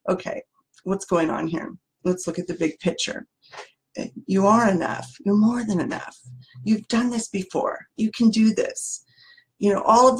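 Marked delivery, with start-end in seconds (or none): 0.1-3.3 soft, calm reassurance; calm wise friend. Acted. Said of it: "says this calm". 4.3-9.0 steady, gentle reassurance at the speaker's usual pitch; calm wise friend. Acted. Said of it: "says this calm".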